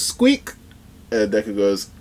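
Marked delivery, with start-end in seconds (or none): 0.0-0.5 high rising squeak; mouse squeak. Retold or imitated. Mouse woman answering Deku with a high squeak. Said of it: "She goes".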